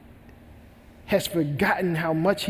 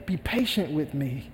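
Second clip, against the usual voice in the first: soft, lower pleading; begging; 3 semitones lower, 5 dB quieter than usual. Acted. Servant begging the king for time, softly. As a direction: drop the voice and beg. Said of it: "he begged".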